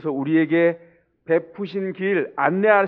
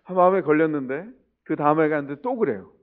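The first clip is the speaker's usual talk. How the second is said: ordinary talk, nothing marked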